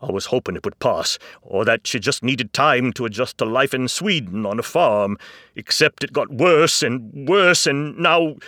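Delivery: loud, pitch climbing as it builds; agitated father, defiant and upset; emphatic distress. A narrator's reading. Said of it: "more to his voice than sadness".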